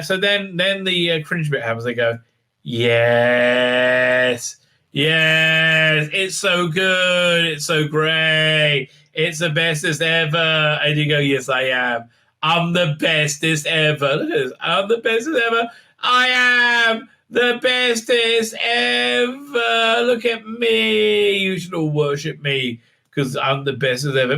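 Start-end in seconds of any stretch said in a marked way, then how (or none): 2.6-10.4 mock gushing praise. Mocking crew praising the hero. 11.2-24.4 slow, drawn-out gloating; smug self-praise. Retold or imitated. Mocking Tilly gloating over her crew.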